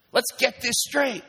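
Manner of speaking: slow, high, emphatic declaration; God speaking firmly to his people. Acted. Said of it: "says God".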